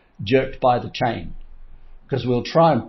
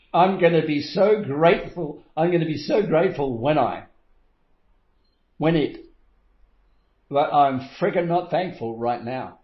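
mock gushing; 3 semitones higher than usual. Mock person grateful for future.

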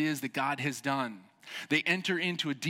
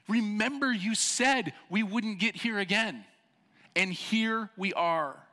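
high, slow exasperated scolding; a raised, pleading rebuke to a relapsing people; Nehemiah confronting; 8 semitones higher, 4 dB louder, slower than usual. Retold or imitated. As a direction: plead with them like a fed-up leader. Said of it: "he's confronting them and he's saying".

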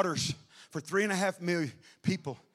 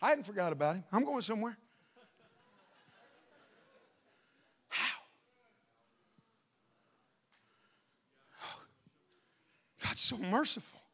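hushed preaching; 9 dB quieter than usual. Acted. Preacher quietly drawing the congregation in.

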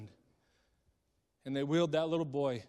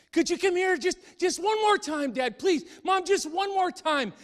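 higher, louder plea, slowed on the last line; a boy shouting to his parents; pleading call; 7 dB louder than usual. Acted. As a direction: beg them to come back one more time.

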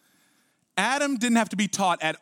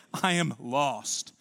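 Isaiah's lament; 5 semitones lower, 4 dB quieter, much slower than usual. Acted. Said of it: "like Isaiah".

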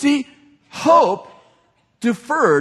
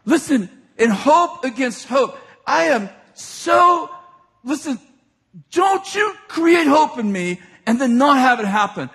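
pleading mother; 3 semitones higher than usual. Retold or imitated. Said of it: "What is she saying?".

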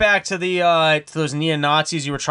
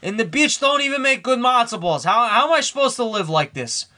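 put-on higher, complaining Jewish accent; whiny Jewish accent; 5 semitones higher than usual. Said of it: "he's, like, actually complaining right now".

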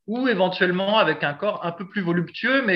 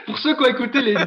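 laughing; 6 semitones higher, 4 dB louder, faster than usual. Real, not acted. Still laughing, restarting the sentence.

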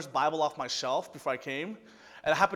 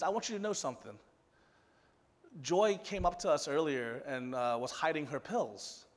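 grave confiding; 3 semitones lower, 7 dB quieter than usual. Retold or imitated. Center staff confiding grave news, retold.

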